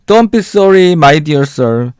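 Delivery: lightly voiced squeaky little old man. Tiny old man forgiving the man who bumped him, lightly squeaky. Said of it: "In a squeaky voice".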